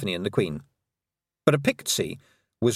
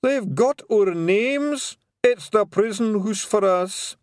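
very high, slow Scots wail; hammed-up Scots sob; louder sobbing pixie; 10 semitones higher, 3 dB louder, slower than usual. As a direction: despair at full volume. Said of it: "sobbed Daft Woolly".

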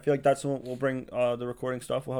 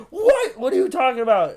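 mock surprise; 10 semitones higher, 5 dB louder than usual. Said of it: "I was like".

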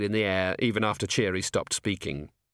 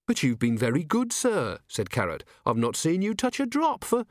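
put-on earnest young guard; 7 semitones higher than usual. Carrot voiced in reading.

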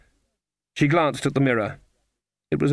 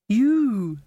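bewildered; 10 semitones higher than usual. A narrator's reading. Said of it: "the girl looked bewildered".

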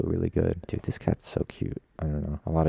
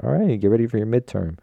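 higher, louder teacher voice; teacher announcing; 7 semitones higher, 6 dB louder than usual. Retold or imitated. Professor springing a surprise midterm on class, higher and louder. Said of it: "they were like".

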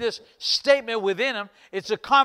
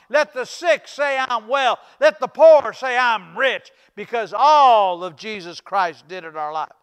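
preaching; 6 dB louder than usual. Real, not acted. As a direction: proclaim it to the congregation with punch.

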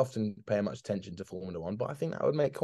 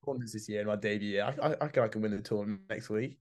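put-on young Tiger; 3 semitones lower, much faster than usual. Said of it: "Tiger just comes out and says".

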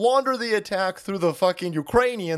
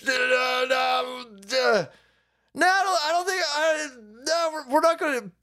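mock Elon Musk; 7 semitones higher than usual. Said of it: "And Elon Musk was like".

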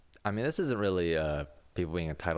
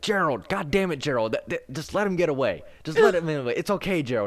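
higher, louder mock yell after someone; exasperated calling out; 9 semitones higher, 6 dB louder, faster than usual. Coworker yelling at old man to stop chasing, exasperated. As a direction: call him back, exasperated and urgent.

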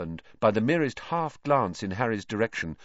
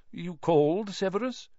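mild; 9 semitones higher than usual. Acted. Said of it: "said Lupin mildly".

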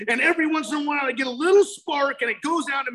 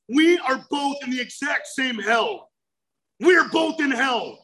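emphatic declaration; 2 semitones higher than usual. Real, not acted. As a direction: drive it home like a preacher. Speaker preaching the same hell.

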